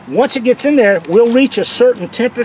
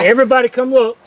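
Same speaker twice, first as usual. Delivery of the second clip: raised voice calling everyone over; calling from far away; 3 semitones higher than usual. Real, not acted. Calling group over to see.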